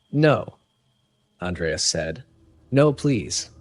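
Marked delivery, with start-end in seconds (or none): 0.1-0.5 higher-pitched, frightened no; frightened refusal. A narrator's reading. Captive to the pirate leader who picked him, frightened refusal. 2.7-3.5 higher-pitched, restrained plea; frightened pleading. A narrator's reading. Captive begging the pirate leader, frightened pleading. Andreas pleads before being dragged out.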